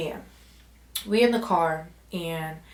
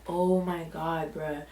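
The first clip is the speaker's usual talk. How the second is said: exasperated; 3 semitones lower, 6 dB quieter, much slower than usual. Retold or imitated. Friend won't leave.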